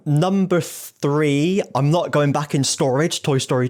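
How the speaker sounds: slow drawn-out number call; bingo caller. Shown as a demonstration. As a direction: stretch the call like a bingo host. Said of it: "I'm, like, doing bingo calling".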